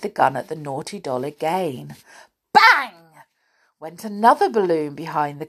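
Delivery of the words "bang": loud, high burst; sudden storybook bang; exclaimed bang. A narrator's reading. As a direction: make it go off like a balloon. Narrator voices balloon bursting.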